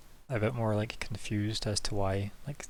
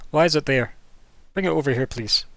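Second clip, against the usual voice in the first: put-on old woman; 4 semitones higher, 7 dB louder than usual.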